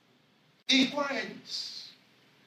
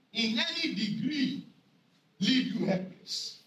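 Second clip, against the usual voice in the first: slow scripture reading; slower than usual. Acted. Preacher reads scripture slowly.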